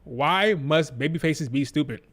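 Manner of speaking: slow, drawn-out exasperated question. Shown as a demonstration. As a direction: drag each word of "Why must babyfaces be stupid". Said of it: "repeated, slowed".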